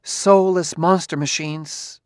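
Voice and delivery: slow, weighty quote; slow, ominous. Retold or imitated. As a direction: drag out each word darkly. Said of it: "She used to say".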